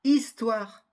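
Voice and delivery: Histoire with the H silent, starting on the vowel. Shown as a demonstration. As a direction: say Histoire clearly, no breath of H. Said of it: "elle ne se prononce pas".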